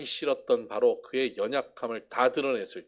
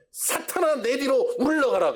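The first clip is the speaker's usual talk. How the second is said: stern rebuke; 13 semitones higher, 6 dB louder than usual. Retold or imitated. Jesus rebukes Peter, quoted.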